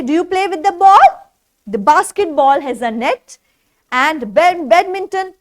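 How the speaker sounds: usual speaking voice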